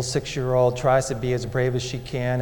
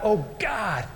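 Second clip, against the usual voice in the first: anguished plea; 3 semitones higher than usual. Retold or imitated. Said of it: "I cried out".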